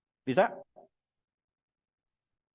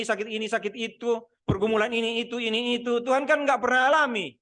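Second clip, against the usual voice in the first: mock complaint; 5 semitones higher, 3 dB louder than usual. Jemaat protes kepada Tuhan.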